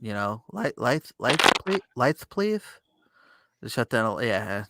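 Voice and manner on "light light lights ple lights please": put-on high little mumbled child voice; Linus. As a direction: mumble it timidly in a small high voice, rising at the end. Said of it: "Which he mumbles".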